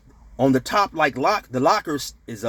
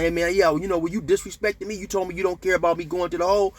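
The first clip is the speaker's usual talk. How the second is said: higher-pitched remonstrating; retold confrontation; 5 semitones higher than usual. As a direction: replay your grievance to him.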